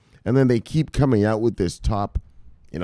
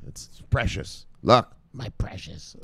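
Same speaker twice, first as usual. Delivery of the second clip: mock Gollum; 5 dB quieter than usual. Mock Gollum over his list.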